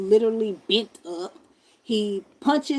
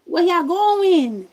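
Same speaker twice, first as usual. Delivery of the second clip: indignant call; 8 semitones higher, 7 dB louder, much slower than usual. Retold or imitated. Yelling at passing police.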